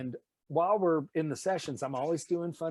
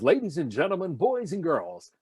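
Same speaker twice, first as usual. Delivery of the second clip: put-on old-style announcer; 3 semitones higher, 4 dB louder than usual. Shown as a demonstration. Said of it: "instead of".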